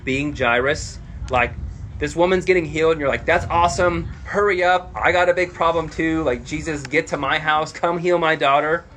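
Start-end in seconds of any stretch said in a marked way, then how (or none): 3.2-8.8 higher, urgent plea; impatient urging. Acted. Jairus urging Jesus to his house, acted impatient urgency. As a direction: hurry someone along, acting out impatience.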